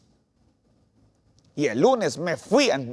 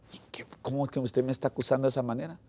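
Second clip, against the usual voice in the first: startled protest; 6 dB quieter, much faster than usual. Retold or imitated. Accused, protesting to the boss.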